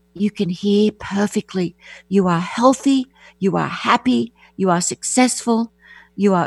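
put-on whispering voice. Retelling a father speaking to his infant son at night: retelling a whisper. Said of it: "would go into his little son's nursery every night and whisper".

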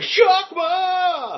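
very high, stretched-out, drawn-out heavy metal shout. Describing fan videos where the name is dubbed in: imitating a heavy metal shout. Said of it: "you all of a sudden hear the guy going".

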